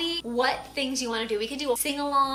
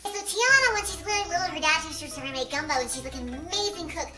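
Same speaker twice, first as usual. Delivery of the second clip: helium voice. Real, not acted. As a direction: talk after a big breath of helium. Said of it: "using helium voice".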